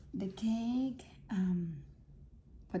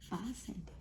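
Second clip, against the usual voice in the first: southern accent; 5 dB quieter than usual. Shown as a demonstration. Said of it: "In my best southern accent".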